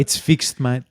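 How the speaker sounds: put-on grumbling old bloke; old man voice. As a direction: mutter it like a grumpy old man. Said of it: "I sound like an old man".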